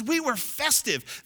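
high, loud, drawn-out proclamation; festive exultation. Retold or imitated. Quoting festive worship, exultantly.

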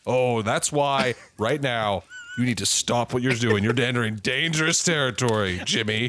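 a low mock-menacing warning; low menacing threat. Santa warning the nosy elf reporter, low and menacing. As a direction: lean in low and threaten him.

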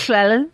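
"Llewellyn" said the Welsh way, with a Welsh double L; Welsh pronunciation. Shown as a demonstration. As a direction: say "Llewellyn" as a Welsh speaker would. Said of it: "I can say Llewellyn in Welsh".

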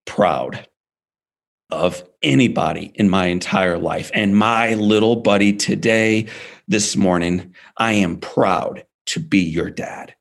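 father telling his burned son he is proud, slow and tender; tender pride. Retold or imitated. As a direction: let each word land slowly, moved. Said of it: "And then he goes".

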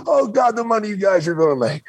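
high, excited promoter gushing; gushing boss. Retold or imitated. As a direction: gush like a thrilled boss. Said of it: "Vince grabs me and hugs me".

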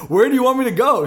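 half-shouted, baffled question; retold confused yell. Retelling practice drill, him yelling back at coach.

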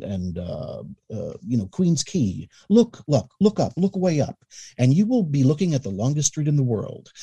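deep, rich evening FM announcer; smooth velvety radio host read; Carl Banas announcer voice. Retold or imitated. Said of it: "deep, rich F M, you know, evening announcer voice".

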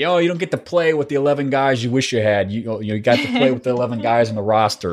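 lightly put-on Chicago sportscaster accent. Host quoting a favorite sports metaphor, mock Chicago accent. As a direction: quote it like a Chicago radio sportscaster. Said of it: "my best, uh, uh, Chicago accent".

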